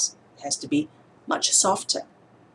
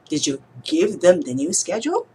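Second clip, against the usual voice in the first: "give" punched louder, question rising at the end; stress on give; 3 dB louder than usual. Shown as a demonstration. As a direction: ask it hitting the word "give". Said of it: "changing how I emphasize different words".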